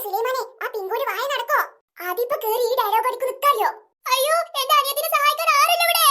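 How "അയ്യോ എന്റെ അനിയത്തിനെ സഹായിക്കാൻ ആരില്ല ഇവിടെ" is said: mock lament, half like laughing; badly faked crying. Friend pleading help for little sister, badly faked crying. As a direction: wail unconvincingly for help. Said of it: "ഈ ചിരിക്കാണോ കരയാണോ".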